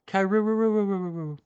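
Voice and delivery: creature cry. Acted. Creature cries its name.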